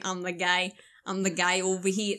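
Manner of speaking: dad's drawn Southern vowels, lightly imitated; lightly mimicked thick Southern accent. Repeating dad's line to friend, imitated thick Southern accent. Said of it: "he just puts it on thick".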